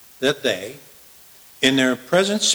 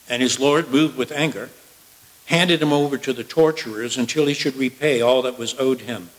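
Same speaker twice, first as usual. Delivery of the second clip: measured, declaiming Bible reading; solemn sermon reading voice; scripture reading; 3 semitones higher than usual. Acted. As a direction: read the passage to the congregation with weight. Reads scripture passage aloud.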